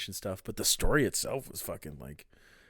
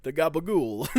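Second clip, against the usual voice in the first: half-hearted Tony Soprano impression; 4 semitones higher, 3 dB louder than usual. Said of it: "do a Tony Soprano impression".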